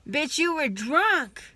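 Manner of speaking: sharp, high and loud, slowed down; angry outburst. Real, not acted. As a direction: spit it out in disgust. Angry retort to parents.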